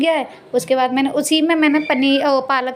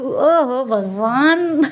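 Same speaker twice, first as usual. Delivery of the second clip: long drawn-out "oh God" at oneself; slow, mock-despairing exclamation; playful exasperation; much slower than usual. Real, not acted. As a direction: groan lightly at your own slip. Exasperated at own slip of tongue.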